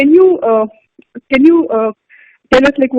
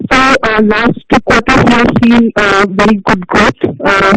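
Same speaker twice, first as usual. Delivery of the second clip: choppy, breaking-up phone line; glitchy robotic call; 2 semitones lower than usual. Real, not acted. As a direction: audio cutting in and out. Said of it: "your audio is, uh, breaking up".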